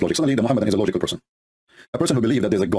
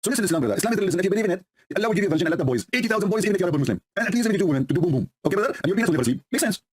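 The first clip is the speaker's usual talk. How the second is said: mock preacher; 6 semitones higher than usual.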